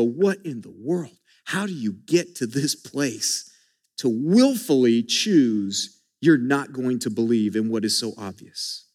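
low, baffled disbelief, slowing down; incredulous. Retold or imitated. Preacher voicing a baffled Bible reader, incredulous. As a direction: ask it as if you can't believe it. Bewildered reader's reaction, voiced.

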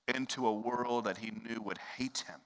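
whispered aside. Acted. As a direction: breathe it out without voice. Somber aside.

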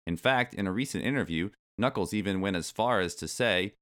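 animated article reading, punching the key words; lively magazine read-aloud. Acted. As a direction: read it out like a cheeky kids' magazine.

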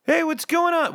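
puberty voice crack. Pretend. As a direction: pretend your voice just broke mid-episode. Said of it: "what happened to my voice?".

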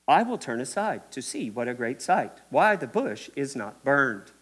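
low, slowed, solemn King James reading; stiff scripture voice. Retold or imitated. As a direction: intone it like old formal scripture, unhurried. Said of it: "not in that tone of voice".

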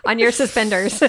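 high giggling through the words; laughing. Real, not acted. Laughing at joke.

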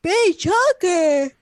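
high, loud slow coo; echoed cooing. Retold or imitated. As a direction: savor the words fondly.

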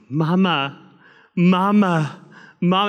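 a pastor imitating his little daughter calling for her mother; toddler calling mama. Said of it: "She said she started going".

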